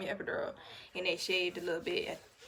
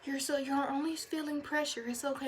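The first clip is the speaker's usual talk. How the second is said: much higher, sing-song nurse; 5 semitones higher than usual. Retold or imitated. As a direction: play the chirpy nurse checking on her. Nurse reassuring patient.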